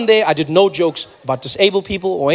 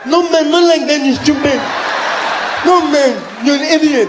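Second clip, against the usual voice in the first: mock outraged yell; 6 semitones higher than usual. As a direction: shout it like a mock offended insult. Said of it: "mock indignant at deaf joke".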